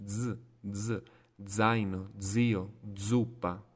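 isolated buzzing "dz", then in zaino, zio, zuppa; Italian Z sound. Shown as a demonstration. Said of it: "la pronuncia della Z è così".

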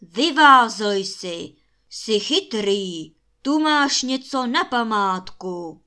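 big, loud, slow giant shout. A narrator's reading. Giant calls after the clever prince, slow loud shouting. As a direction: shout it with stretched-out words. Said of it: "křičel obr".

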